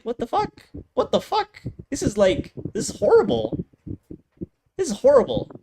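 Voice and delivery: high, laughing what the fuck; laughing disbelief. Real, not acted. Reviewer laughing at the unearned ending, high laughing outrage.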